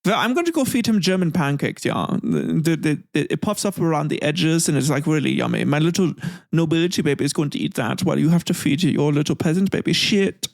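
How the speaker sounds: lightly voiced German aristocrat, gloating; mock German noble. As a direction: play at a snooty German noble, taunting. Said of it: "pretending to be a little German".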